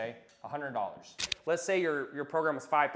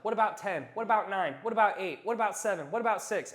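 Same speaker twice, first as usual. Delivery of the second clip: higher, pleading rookie bargaining down; a rookie salesman haggling against himself, desperate; 6 semitones higher, 3 dB louder than usual. Shown as a demonstration. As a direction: beg down the price like a nervous beginner. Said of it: "what do rookie salesmen do".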